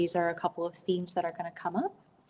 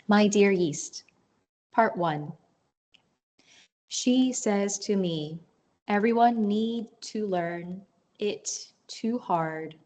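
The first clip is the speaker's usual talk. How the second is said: deliberate poetry recital, pausing after short phrases; poem reading. Acted. Poet reads grandmother's letter in her poem, deliberate recital.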